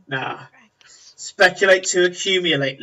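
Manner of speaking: unvoiced, sly whisper; whispered menace to the debtor; whispered taunt. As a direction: hiss the advice conspiratorially. Half-orc taunting her.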